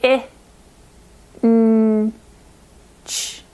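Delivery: "I", "n", "ch" tapped separately, then "Inch" blended; sounding out inch. Shown as a demonstration. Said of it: "three sounds within the word".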